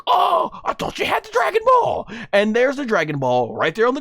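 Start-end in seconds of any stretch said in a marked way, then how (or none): 0.1-2.1 mocking the thief. Voicing Goku mocking the thief he just kicked, higher gloating shout. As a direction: gloat as you kick him away. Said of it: "he's like".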